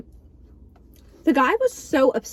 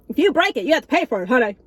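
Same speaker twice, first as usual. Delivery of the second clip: sassy mock scolding; 4 dB louder, faster than usual. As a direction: scold with a fake sassy honey. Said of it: "he was like".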